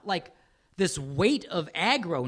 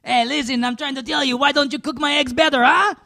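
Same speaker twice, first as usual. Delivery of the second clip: higher, louder hammed-up French rant; mock French accent; 8 semitones higher, 8 dB louder than usual. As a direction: demand better eggs like a cartoon Frenchman. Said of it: "That's French".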